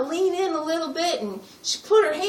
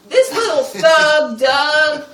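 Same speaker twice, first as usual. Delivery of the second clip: jelling his name like an insult; scornful shout; 6 dB louder, slower than usual. Acted. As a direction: shout out the name with disgust, slow. Ranting about daughter's boyfriend.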